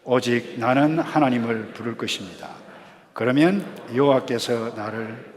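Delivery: projected, deliberate group recitation; reading out loud. Shown as a demonstration. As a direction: read it aloud to lead a congregation. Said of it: "소리 내어서 읽도록 하겠습니다".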